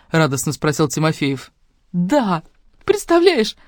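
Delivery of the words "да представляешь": leaping high on the question, squealing; overjoyed shriek to Lyosha; squeal of joy. A narrator's reading. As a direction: squeal it out, nearly in tears. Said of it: "взвизгнула я".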